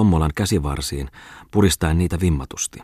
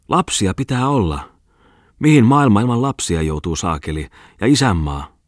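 put-on drunken shout; 4 semitones higher than usual. Drunk shouting during brawl.

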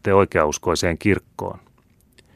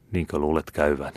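downcast; 6 dB quieter than usual. A narrator's reading. Captain to the young lieutenant in their cell, gloomily. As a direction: let the hope drain out of it. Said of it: "Virkkoi kapteeni alakuloisesti".

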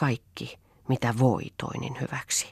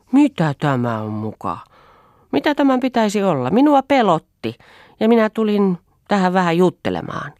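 put-on high, louder, indignant young woman's voice; indignant Toini; 8 semitones higher, 6 dB louder than usual. A narrator's reading. Toini defends herself to Lea, high and indignant. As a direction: protest your innocence, pitched high and quick. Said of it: "ja vähän närkästyksissään".

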